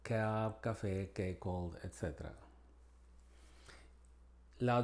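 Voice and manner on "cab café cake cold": C said as K in cab, café, cake, cold; hard K sound at the start of each word; English hard C. Shown as a demonstration. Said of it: "Como vemos en estas palabras". (C inglesa dura como K)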